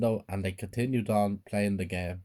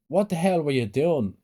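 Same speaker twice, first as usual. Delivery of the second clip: mildly raised, higher scolding voice; angry dad shouting; 6 semitones higher, 4 dB louder than usual. A narrator's reading. Dad shouts at his child by the car, angry shout. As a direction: read it as a dad's restrained shout. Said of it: "my dad shouted at me".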